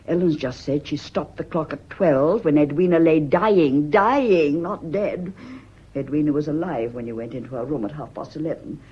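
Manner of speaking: loud, hammering accusation rising to a shout; furious accusation. Acted. Wife confronts husband over his lie, shouting. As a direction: nail him with every word.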